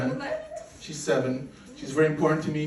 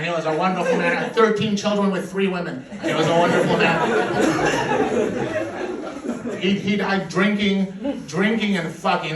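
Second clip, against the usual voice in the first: louder, drawling defensive redneck; offended American; 4 dB louder than usual. Retold or imitated. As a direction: puff up and defend grandpappy, hammed-up. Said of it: "So they're like".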